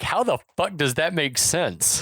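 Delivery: high, slow incredulous question; acted baffled boss; mock bafflement. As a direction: draw it out in exasperated disbelief. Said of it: "Beller is again like".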